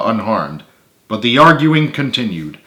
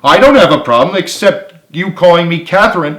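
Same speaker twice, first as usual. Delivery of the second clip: angry retort; 7 semitones higher, 6 dB louder than usual. A narrator's reading. Carly yelling back.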